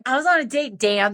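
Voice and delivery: retold telling-off with his name as full stop; going off. Woman scolding Dan by phone, indignant. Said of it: "I went off on him".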